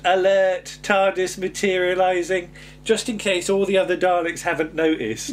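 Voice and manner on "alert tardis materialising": Dalek voice. Retold or imitated. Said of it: "literal Dalek who goes".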